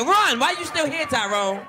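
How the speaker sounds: sudden high shout; hammed-up yell of run; mock shout. Shouting at the suspect.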